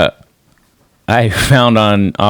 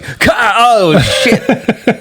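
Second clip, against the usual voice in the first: high, strangled half-laughing cry; mock choking strain; 10 semitones higher, much slower than usual. Man pinned under a huge weight, mock strangled. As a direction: act crushed and gasping, pitched way up.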